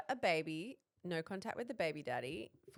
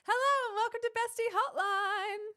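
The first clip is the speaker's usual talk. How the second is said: high, loud radio host intro; announcer voice; 14 semitones higher, 7 dB louder than usual. Acted. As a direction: sing out the show welcome like a host.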